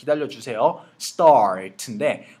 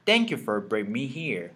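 slow model reading; much slower than usual. Shown as a demonstration. Teacher reading the line aloud slowly for students to copy. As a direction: thank you for bringing me here read slowly and evenly. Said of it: "시작".

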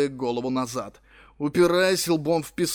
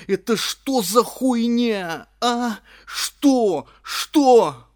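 high frantic shout; hysterical yelling; 9 semitones higher, 7 dB louder, much slower than usual. A narrator's reading. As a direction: shriek it hysterically. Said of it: "орал я, брызжа слюнями".

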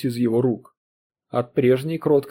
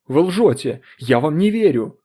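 louder furious outburst; angry accusation; 3 semitones higher, 5 dB louder than usual. Acted. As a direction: fling the accusation at him. Accusing Foster of lying. (гневно, громче: вы лжёте)

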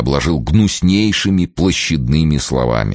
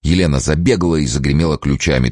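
ordinary delivery

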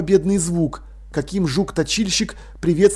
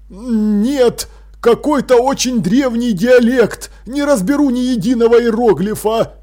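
lightly voiced king, pitched up; king admitting defeat; 5 semitones higher, 4 dB louder than usual. King admits he cannot read it, puzzled. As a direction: own up in a raised voice.

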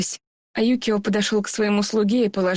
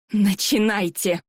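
commanding goddess voice; slower than usual. Acted. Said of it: "раздался властный голос богини Инари".

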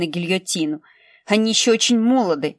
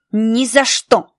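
firm refusal; 2 semitones higher, 4 dB louder, much slower than usual. Acted. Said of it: "возразила Хелен и стиснула зубы".

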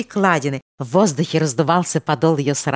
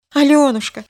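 higher, louder repeated name; anguished louder call; 10 semitones higher, 6 dB louder than usual. A narrator's reading. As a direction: call her name again, desperate. Calling her louder. (отчаянный зов по имени)

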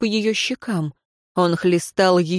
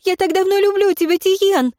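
much higher, fast, tearful woman's voice; higher, rushed, tearful confession; sobbing woman; 12 semitones higher, 3 dB louder than usual. Acted. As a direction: pour it out while breaking down. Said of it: "и разрыдалась".

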